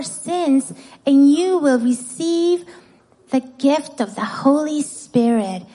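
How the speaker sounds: put-on reading to children. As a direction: read it out clearly to kids. Reads scripture to children.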